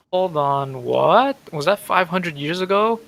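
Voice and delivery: startled confusion. Real, not acted. Player stopping at the five hundred years reveal, startled. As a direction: break in loudly, genuinely thrown.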